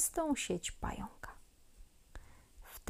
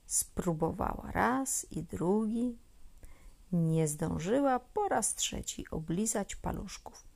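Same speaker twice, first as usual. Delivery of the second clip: ordinary delivery, nothing marked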